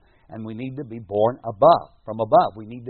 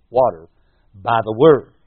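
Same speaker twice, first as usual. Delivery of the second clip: emphatic preaching; 11 dB louder than usual. Real, not acted. Preacher hammers the key phrase.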